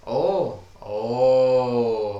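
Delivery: loud gasping realisation; the scene lands and a loud "Oh" bursts out; loud surprised oh. Real, not acted. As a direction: cry out in sudden delight. Exclaiming at the scene.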